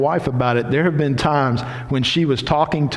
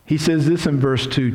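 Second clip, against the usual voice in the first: ordinary delivery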